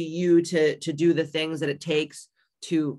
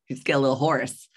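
laughing; 3 semitones lower, faster than usual. Real, not acted.

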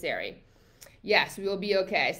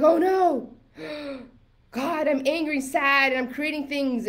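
higher, louder alarmed outburst with a gasp; mock panic; 6 semitones higher, 4 dB louder than usual. Coach voices someone catching their negative thoughts, mock panic. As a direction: act out dawning dismay, hammed-up.

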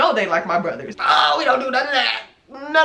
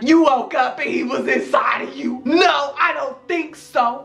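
incredulous laugh; 3 semitones higher than usual. Retold or imitated. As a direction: laugh it off as nonsense. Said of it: "And I'm like".

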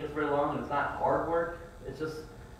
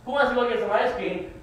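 much higher, louder, bright offer of ice cream; excited call; 9 semitones higher, 4 dB louder than usual. Shown as a demonstration. Dad tempting his kids with ice cream, excited. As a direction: sell the treat with a big lift. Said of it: "No, I say".

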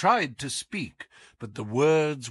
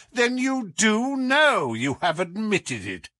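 Holmes gloating, higher and louder at first; amused, derisive; 10 semitones higher, 5 dB louder than usual. A narrator's reading. Holmes taunting the Count with amused triumph. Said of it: "Holmes clapped his hands with amusement".

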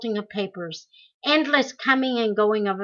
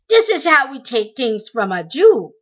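cruel jeer; 3 semitones higher, 7 dB louder than usual. A narrator's reading. Guard kicking man.

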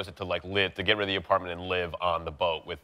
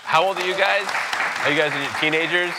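bright upbeat question; 10 semitones higher, 6 dB louder than usual. Real, not acted. Host greets kids brightly.

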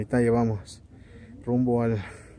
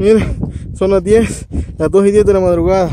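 loud over the wind; 7 semitones higher, 9 dB louder than usual. Real, not acted. Windy cold summit at night.

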